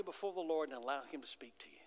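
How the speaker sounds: a hurried, breathy whisper. Shown as a demonstration. Preacher urging the congregation to sit still, whispered. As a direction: drop into a whisper for the Lord. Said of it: "just to sit quietly".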